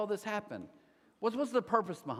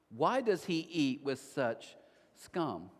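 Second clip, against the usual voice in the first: slow repeat; 4 semitones lower, much slower than usual. Shown as a demonstration. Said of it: "think how harsh this is".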